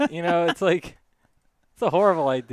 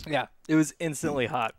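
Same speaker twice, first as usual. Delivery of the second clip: hiccuping between words; hiccups; 5 dB quieter than usual. Real, not acted. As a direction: talk through hiccups. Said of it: "You already got the hiccups going".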